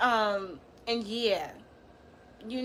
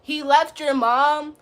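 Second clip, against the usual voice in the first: heated roast; 2 semitones higher, 6 dB louder than usual. Real, not acted. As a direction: spit out the insult. Roasting viewer B Steel.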